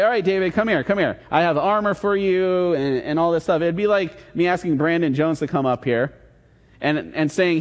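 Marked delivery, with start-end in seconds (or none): 0.0-2.7 lightly voiced eager king, pitched higher; a hint of a keen king calling David over; mock royal invitation, higher; King Saul. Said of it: "King Saul, who's there, is like".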